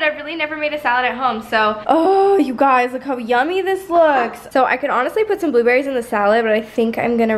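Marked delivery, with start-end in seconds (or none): 1.9-4.5 excited. Real, not acted. Showing the finished salad.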